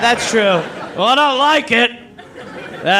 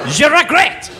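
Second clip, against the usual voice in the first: mock French; 3 semitones higher than usual. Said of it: "I can't do a French accent".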